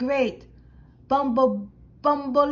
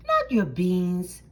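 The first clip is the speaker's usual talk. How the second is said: outraged; 6 semitones lower than usual. Acted. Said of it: "cried Skipito, outraged".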